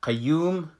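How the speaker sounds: قیوم said light, Persian style; Persian qayyum. Shown as a demonstration. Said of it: "در فارسی".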